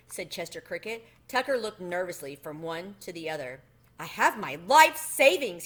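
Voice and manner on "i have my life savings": louder, pitiful little plea; a mouse pleading pitifully over his savings; pathetic voice. A narrator's reading. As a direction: sound sorry for yourself. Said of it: "he said in a pathetic voice".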